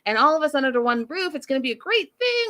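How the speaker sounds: imitating Sumit. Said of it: "Sumit's like".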